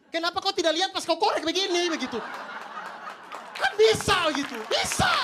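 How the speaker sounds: high, loud exasperated rant; escalating comedy rant. Acted. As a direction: scold the chicken, building to a shout. Ranting at the chicken.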